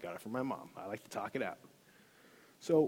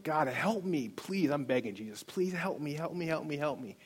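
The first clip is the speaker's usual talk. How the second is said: higher-pitched pleading, no real sobs; retold tearful begging; 3 semitones higher than usual. Man on his knees begging God, mock-tearful pleading. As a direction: imitate desperately begging for help. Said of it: "I'm crying like a baby".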